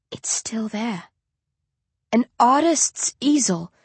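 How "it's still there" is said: stunned breathless whisper. A narrator's reading. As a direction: breathe it out in disbelief. Stunned at a strange sight.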